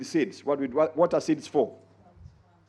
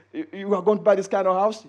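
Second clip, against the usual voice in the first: mocking inner doubt; 6 semitones higher, 4 dB louder than usual. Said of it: "and you say".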